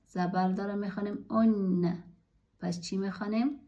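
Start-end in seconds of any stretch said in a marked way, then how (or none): 1.3-2.0 ان said "onna", opening on a short o; doubled N after pesh. Shown as a demonstration. Teacher reading alef with pesh and tashdid noon, ان as "onna". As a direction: hold the double n in ان: "on-na". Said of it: "پیش داره".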